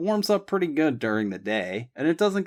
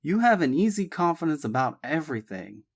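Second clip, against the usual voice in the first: serious tone; 8 semitones higher than usual. A narrator's reading. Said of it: "Sean admitted in a serious tone".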